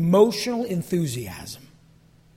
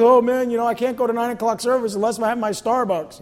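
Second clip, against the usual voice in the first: mock coffee addict; 3 semitones higher, 4 dB louder than usual.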